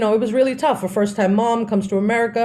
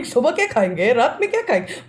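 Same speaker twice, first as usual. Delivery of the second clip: imitating mom in Hindi; 3 semitones higher than usual. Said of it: "Her conversations are all around".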